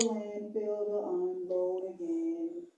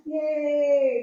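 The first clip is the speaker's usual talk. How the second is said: cheering yay; 8 dB louder than usual. Pretend. Cheer at book's end.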